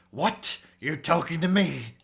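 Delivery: confrontational. Acted. Bandit answering a stranger who interrupts, confrontational. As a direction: challenge whoever dared address you. Bandit challenges the one addressing him.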